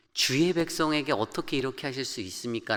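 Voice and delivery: 주의 stressed, the question rising at its end; a mild, earnest protest, 주의 weighted; protesting plea. Shown as a demonstration. Preacher retelling Moses arguing with God, in a mild protest. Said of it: "라고 항변합니다".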